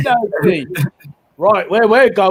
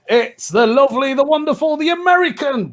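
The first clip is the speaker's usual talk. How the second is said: rising higher with each title, game-show hype; announcer build-up; 4 semitones higher than usual. Acted. Host announces round winner.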